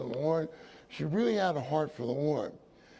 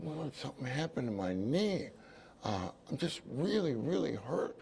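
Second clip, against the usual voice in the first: hushed, softer confession of pain; whispering; 5 dB quieter than usual. Retold or imitated. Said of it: "I'm whispering back to him".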